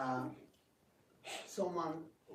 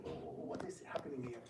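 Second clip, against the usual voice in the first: whisper; 2 semitones lower, 6 dB quieter than usual. Retold or imitated. Inner thought at the audition.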